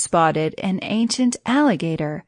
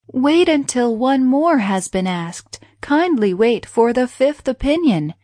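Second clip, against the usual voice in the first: higher, pleading plea for mercy; 6 semitones higher, 4 dB louder than usual. Acted. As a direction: beg the tiger to wait, voice raised high. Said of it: "he pleaded mercifully".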